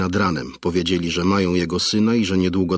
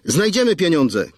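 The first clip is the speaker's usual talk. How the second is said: mother cries out; 10 semitones higher than usual. A narrator's reading. Mother shouting to the kidnapper that they'll find the money. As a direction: call out to the kidnapper in panic. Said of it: "krzyknęła Ziemnicka".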